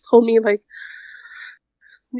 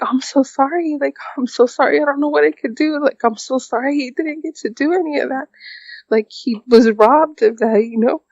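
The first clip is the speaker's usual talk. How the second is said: higher, breaking voice, apologizing; tearful apology; 4 semitones higher than usual. Real, not acted. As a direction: say sorry as if holding back tears. Tearful apology to her husband.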